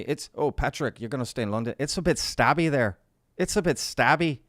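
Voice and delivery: put-on English accent; horrific English accent. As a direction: imitate an English friend with a bad English accent. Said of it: "that's my horrific English accent".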